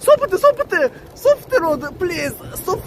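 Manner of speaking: scared, begging to stop; frightened pleading. Real, not acted. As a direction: panicky pleading passenger. Scared passenger on bumpy bike.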